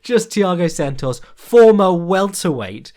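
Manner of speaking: bursting with amazement at the fight; laughing disbelief. Retold or imitated. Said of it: "It's like".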